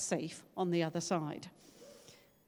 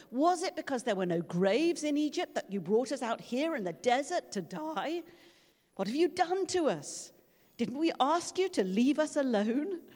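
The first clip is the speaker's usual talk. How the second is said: complaining Israelites; 5 semitones higher than usual. Acted.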